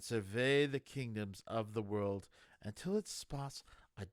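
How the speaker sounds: unhurried bedtime read-aloud voice; calm, measured fantasy storytelling; story narration. A narrator's reading. Reads Small Gods opening aloud.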